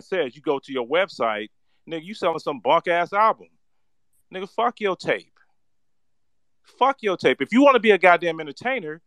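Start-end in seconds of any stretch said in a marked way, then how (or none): 1.9-5.3 heated rebuke. Real, not acted. Scolding a failed candidate. 6.8-7.4 harder repeat. Real, not acted.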